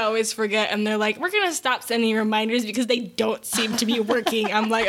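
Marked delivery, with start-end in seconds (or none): 1.2-4.5 lightly voiced sassy notification; sassy app. Duolingo scolds a forgetful learner, mild sass. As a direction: play the app giving up on you, with sass. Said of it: "Duolingo has sass".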